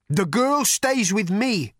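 big projected voice; booming thunder god. A narrator's reading. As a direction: lay down the law as a god. Thunder god lays down the law.

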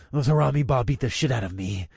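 talking through the pain; gritted teeth. Acted. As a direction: force it through clenched teeth. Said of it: "through gritted teeth".

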